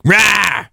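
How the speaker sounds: short, high mock scream; retold scream. Telling how riled up he got the other day, mock scream. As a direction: imitate a scream at ordinary volume. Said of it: "I literally screamed".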